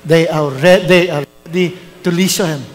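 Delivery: low, solemn voice of God; voice of the Lord. Retold or imitated. Pastor voicing God's low reply in his dream.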